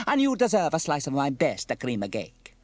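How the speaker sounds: put-on high, loud Italian-accented gushing; Bella, grateful. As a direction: promise a treat with delight. Bella rewards Sam with cake.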